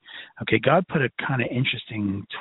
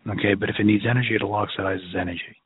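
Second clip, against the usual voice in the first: Brooklyn accent; 3 semitones lower, faster than usual. Real, not acted. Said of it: "my Brooklyn accent's coming out tonight".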